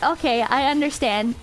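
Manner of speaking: low, resigned acceptance; mild, understanding tone; reasonable. Retold or imitated. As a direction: give in politely, keeping it calm. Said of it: "more reasonable side of my brain".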